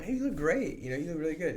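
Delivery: really mean it, delighted to see her; sincere compliment to wife, pitch up; genuine compliment. Shown as a demonstration. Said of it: "it's different".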